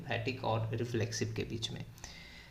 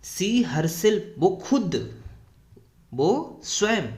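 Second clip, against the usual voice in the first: "She herself" said louder, pushed hard; stress on herself; 3 semitones higher, 5 dB louder, much slower than usual. Shown as a demonstration. Teacher to students, stressing the pronoun: loud stress on "herself". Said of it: "हम लोग जोर दे के बोले".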